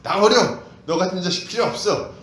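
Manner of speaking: loud scolding father; angry father. Retold or imitated. Preacher voicing a father scolding his child, angry shout. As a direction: throw out the son in mock anger. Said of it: "아버지들이 ... 어떻게 합니까".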